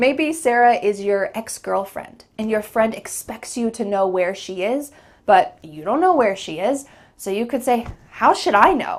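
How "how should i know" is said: a little defensive, louder. Saying it to a friend who expects you to know where she is; a little defensive. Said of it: "It's a little defensive".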